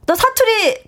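stern manager. Retold or imitated. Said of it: "이렇게 얘기를".

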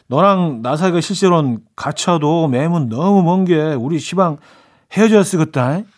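lightly acted Jeolla dialect breakup line, rising a little at the end; playful mock Jeolla lover's farewell. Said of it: "제가 약간 전라도 쪽인가, 사투리는?". (가벼운 전라도 사투리 연기)

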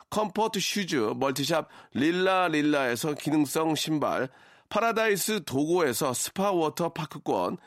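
brisk ad read of prize list; sponsor list read. Acted. (라디오 협찬 광고 낭독)

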